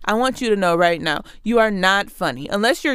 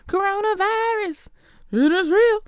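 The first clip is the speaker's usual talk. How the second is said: much higher-pitched impression of a viral song clip; a rapper; 11 semitones higher than usual. Quoting a song that tickles her, high rapper voice. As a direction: put on a very high voice for the catchphrase. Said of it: "now, a rapper, ooh, that song tickles me".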